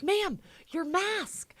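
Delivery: high, slow, insistent clerk voice; mock clerk. Retelling the clerk insisting on her mask, high and slow. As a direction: drag out ma'am like a stern clerk.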